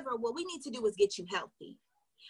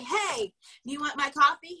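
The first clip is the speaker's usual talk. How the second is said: salesy pitch; 3 dB louder than usual. Shown as a demonstration. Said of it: "Here's what you don't do to be salesy".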